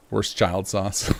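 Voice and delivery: put-on Worst child sauce spoken slowly, each word separate; slow demo. Shown as a demonstration. Streamer to chat, demonstrating his Worcestershire. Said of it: "say it kinda like worst child".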